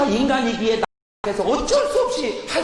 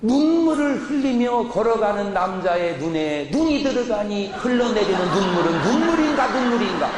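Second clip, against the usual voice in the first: poetic recitation. Shown as a demonstration. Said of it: "그래서 눈 내리는 겨울날".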